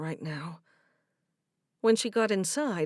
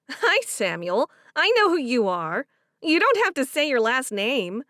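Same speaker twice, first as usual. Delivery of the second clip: put-on young woman voice; 5 semitones higher, 7 dB louder than usual. Favor voiced in story.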